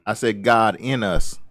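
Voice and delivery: "God in us" spaced out slowly for correction; slow down and set "God in us" apart clearly; deliberate, slow emphasis on "God in us"; clarifying stress. Real, not acted. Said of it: "let me clarify something".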